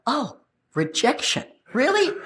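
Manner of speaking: mock offence, rising very high; affronted disbelief. Acted thought on being rejected.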